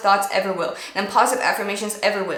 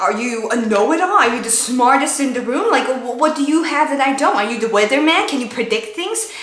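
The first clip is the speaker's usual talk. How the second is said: sarcastic interrogation. Shown as a demonstration. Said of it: "how I would be speaking to my brain".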